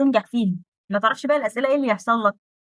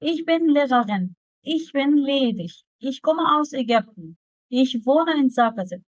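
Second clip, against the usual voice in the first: slow reading aloud; much slower than usual. Shown as a demonstration. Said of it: "عايزاك تطلع الأخطاء اللي فيه".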